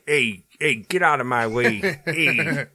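put-on gruff, blunt New York accent, half laughing; light mock New York accent, laughing. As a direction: play a pushy New Yorker in a New York accent. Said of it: "I like the kind of New York accent too".

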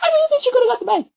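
high, fast, squeaky insistence; playful insistence. Real, not acted. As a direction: pipe it up in mock protest.

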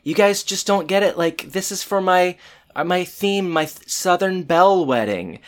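high, huffy insistence; indignant Topanga. Retold or imitated. Bride insists on her Southern Belle theme, high and huffy. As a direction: defend her theme, offended. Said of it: "Topanga says".

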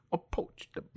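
hammed-up lawyer accent breaking into giggles; grand courtroom plea, about to crack up; Southern lawyer impression. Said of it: "Huckleberry Finn lawyer type".

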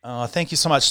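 talking around a sip of coffee; while sipping a drink. Real, not acted. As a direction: say it between sips of coffee. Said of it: "I'm sipping my coffee".

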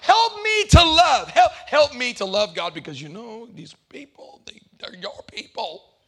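loud, high, hammed-up pleading prayer; pleading prayer pitched high and loud, then dropping to a grumble; mock self-righteous prayer. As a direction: cry out to God like a self-righteous saint. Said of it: "we have to pray".

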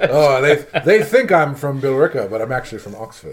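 mock English accent, amused; joking impression of a tipsy Englishman's accent; drunken English accent. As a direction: play a drunk guy slipping into an English accent. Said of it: "their English accent comes out".

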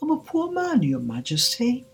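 high-pitched nervous plea; high, fearful Hatter; trembling. A narrator's reading. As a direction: plead timidly with the king. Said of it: "began in a trembling voice".

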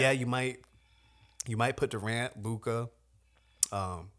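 talking through hiccups; hiccuping between words. Real, not acted. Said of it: "I keep hiccuping right here".

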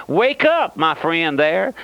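urgent wake-up call. Real, not acted. Preacher rousing his listeners.

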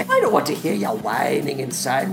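hammed-up ogre character voice with chuckles; Shrek. Old friend takes over the podcast to pick a winner, as Shrek. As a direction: play a bawdy, gleeful cartoon ogre. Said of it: "Shrek, once again".

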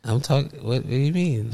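fighting back a laugh; can't keep a straight face; stifled giggles. Real, not acted. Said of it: "you couldn't even give a straight face".

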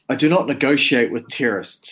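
scary threatening voice. Acted. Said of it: "in my best scary kinda, you know, threatening, dominant voice".

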